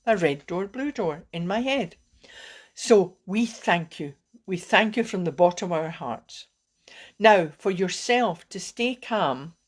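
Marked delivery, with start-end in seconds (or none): 2.8-6.5 heartfelt thanks. Real, not acted. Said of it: "I'm getting a bit emotional".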